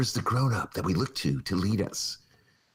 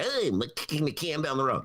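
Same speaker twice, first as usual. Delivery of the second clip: put-on a light, casual take on old Mayor Daley; barely-there Daley voice; Daley imitation; 3 semitones higher than usual. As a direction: toss it off like Daley shrugging. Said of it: "That's my Daley imitation".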